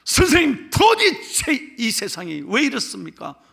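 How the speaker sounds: acted fury, starting high and loud; angry complaint. Young man raging at the rabbi, acted angry complaint. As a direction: demand answers like an outraged young man. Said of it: "막 화를 내기에".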